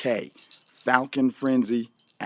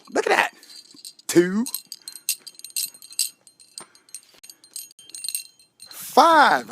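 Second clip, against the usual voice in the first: Count-style counting; 8 semitones higher, 3 dB louder, slower than usual. Retold or imitated. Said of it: "the last guy that used to count like that".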